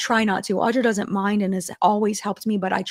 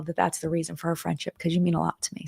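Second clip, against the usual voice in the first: choked up; 5 dB quieter than usual. Real, not acted. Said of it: "I'm getting emotional".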